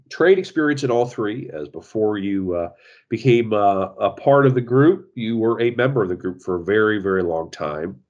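talking with a blocked nose; like a clothespin on the nose; pinched nose. Real, not acted. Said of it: "sounds like I have a, a clothespin on, on my nose".

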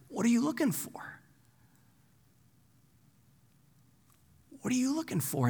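soft, high, gentle question; inviting. Acted. Jesus asking those who would follow, inviting. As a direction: offer it quietly as an open invitation. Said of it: "that's the most inviting question".

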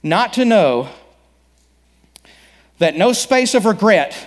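a hint of a mournful ghost; unearthly voice. Pastor voices Marley's ghost.

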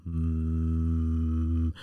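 low humming moan. Shown as a demonstration. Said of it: "what I do is just go".

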